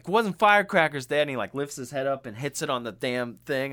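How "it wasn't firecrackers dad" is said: put-on exasperated kid. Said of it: "And he's like".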